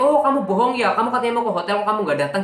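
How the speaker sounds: mock his angry accusation, high and loud; angry scolding. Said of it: "pala dia yang marah-marah". (menirukan omelan marah, tinggi dan keras)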